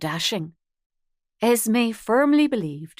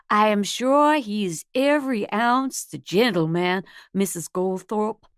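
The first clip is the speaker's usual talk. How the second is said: a hammed-up Southern belle accent over a Spanish voice; comical Southern belle accent. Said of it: "tried her best to do a Southern belle accent".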